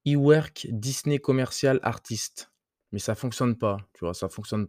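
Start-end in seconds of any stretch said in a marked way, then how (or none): 0.1-2.5 slow English title in a French accent. Real, not acted. Podcaster retrying the company name, slow French-accented English. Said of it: "tu m'excuses mon accent anglais".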